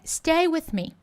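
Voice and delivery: swinging, rhythmic. Shown as a demonstration. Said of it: "malemolência e o gingado".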